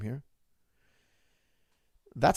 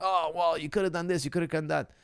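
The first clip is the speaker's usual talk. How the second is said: higher mocking armchair critic; mocking know-it-all; 4 semitones higher than usual. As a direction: imitate a smug fan who knows better. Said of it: "you're like".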